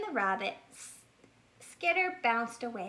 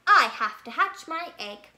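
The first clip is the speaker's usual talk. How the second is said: much louder, proud and insistent; self-important; 4 semitones higher, 10 dB louder than usual. Acted. Bear tells the rabbit he must hatch his egg, insistent. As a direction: puff up with importance.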